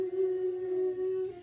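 excited woo. Real, not acted. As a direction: whoop with glee. Cheering before reading starts.

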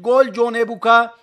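loud, punched goal call; screaming football commentator. Real, not acted. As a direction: belt out the goal and the scorer. Goal announcement.

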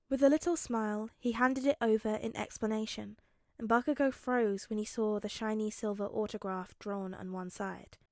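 measured audiobook narration; story narration. A narrator's reading. Narrator telling how Bakugo backs off, measured. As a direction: read the action evenly to the listener.

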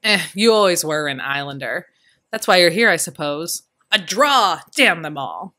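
hearty, boastful bellow; booming father. Acted. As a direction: brag it out like a loud old soldier. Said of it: "as loud and booming as ever".

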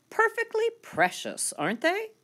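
very high, gushing proud mother. Acted. Proud poodle mother to her puppies, gushing high. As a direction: coo it out like a doting poodle mama.

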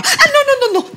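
high, sulky little no; hammed-up offended girlfriend; high huffy refusal. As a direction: pout out the refusal.

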